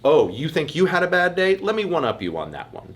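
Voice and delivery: mock one-upper. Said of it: "the people who are like".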